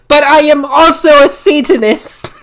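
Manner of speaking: can't hold back the laugh; laughing through it. Real, not acted. Reader cracking up at the line, laughing out loud.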